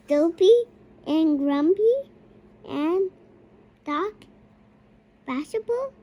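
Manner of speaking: shouting names. Real, not acted. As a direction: yell each dwarf's name proudly.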